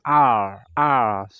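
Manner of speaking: R ala Inggris, lidah naik ke atas. Shown as a demonstration. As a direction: contohkan R Inggris yang hampir hilang. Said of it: "Lidahnya itu mengatup di atas". (R Inggris, lidah mengatup di atas)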